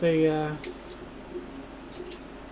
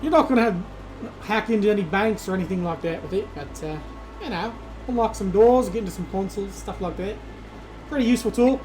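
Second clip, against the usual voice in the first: lightly voiced tough contact; gruff fixer NPC; 3 semitones higher than usual. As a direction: hand over the tool like a streetwise fixer. GM voices NPC handing tool.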